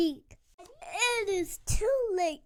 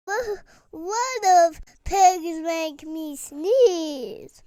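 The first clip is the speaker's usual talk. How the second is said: slow panic; 5 dB louder, slower than usual. Acted. Panicked realisation about pigs.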